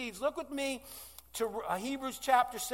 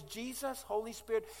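quiet, slowing, pleading prayer; praying alone in struggle, hushed and pleading; retold desperate prayer; 5 semitones lower, 8 dB quieter than usual. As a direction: sink into a soft, hurting plea. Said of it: "the thing I say is".

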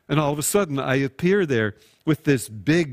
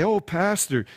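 gushing thanks; 4 semitones higher than usual. Acted. Congregant gushing over pastor's gift.

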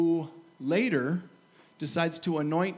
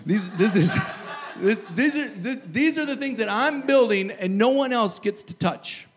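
laughing through it; 3 semitones higher, 5 dB louder than usual. Real, not acted. Preacher laughing at his own act.

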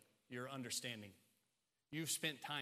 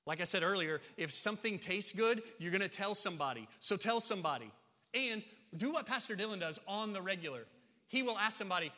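raised, loud pulpit voice; energetic preaching; 6 semitones higher, 8 dB louder than usual. Real, not acted. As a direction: urge the congregation on with force. Preaches at full force.

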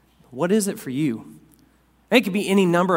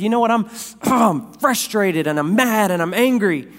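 retold frustration; 4 semitones higher than usual. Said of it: "and I said".

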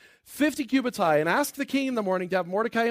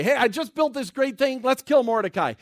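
brisk, higher-pitched proud announcement; eager Haman; 4 semitones higher, 4 dB louder than usual. Acted. Haman bursting in with news of what he built, eagerly. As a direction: show off the plan eagerly. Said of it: "That's what he's coming in to say".

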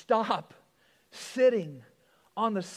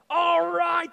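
eager owner; 8 semitones higher, 7 dB louder than usual. Acted. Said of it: "the owner said".

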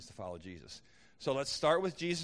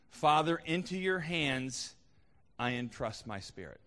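raised, slow, proclaiming voice; crying out; 3 semitones higher, 3 dB louder than usual. Retold or imitated. Jesus calling to his Father from the cross, mild cry. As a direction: mildly imitate a cry to heaven. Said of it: "He cried out".

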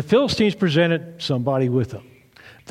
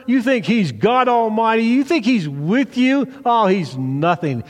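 mocking Goliath; 6 semitones higher than usual. Goliath taunting the wimpy Israelites, mocking higher voice. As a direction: jeer down at the little army. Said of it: "and he goes".

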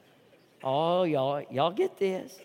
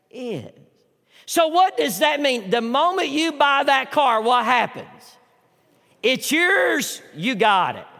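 preaching at full force; 2 semitones higher, slower than usual. Acted. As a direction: build the auction story up. Story told loudly.

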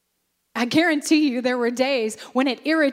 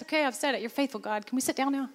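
much softer, muttered under the breath; grumbled aside; 6 dB quieter, faster than usual. Pretend. Bored worshipper grumbling softly between song lines, mock. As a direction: mutter it so nobody hears.

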